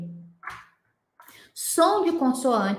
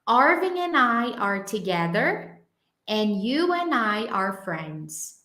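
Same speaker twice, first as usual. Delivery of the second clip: slow, clear reading of the sentence; slow, careful model sentence; slower than usual. Shown as a demonstration. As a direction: read it slowly for the class. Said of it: "ela trouxe duas ideias".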